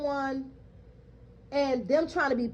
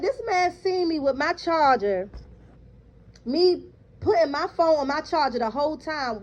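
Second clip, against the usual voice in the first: higher and a bit louder protest; indignant; 3 semitones higher, 4 dB louder than usual. Retold or imitated. To the supervisor on the phone, indignant and raised. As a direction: push back at the false accusation. Defending herself against theft claim.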